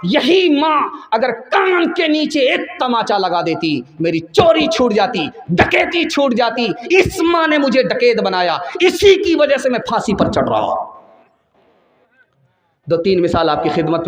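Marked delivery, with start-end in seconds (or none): 0.0-10.9 passionate outcry, voice raised and high; raised impassioned plea. Retold or imitated. Condemned son's speech to judge.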